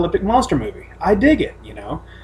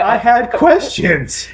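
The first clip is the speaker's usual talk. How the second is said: drawn-out deadpan; 5 semitones higher, much slower than usual. Real, not acted. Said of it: "repeating the line for a laugh".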